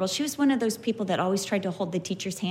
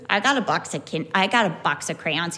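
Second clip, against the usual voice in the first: put-on boastful kid; 5 semitones lower than usual. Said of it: "he goes".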